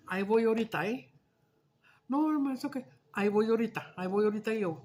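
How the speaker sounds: loud, eager on-my-way; entusiasmado, ya voy; eager reply. Retold or imitated.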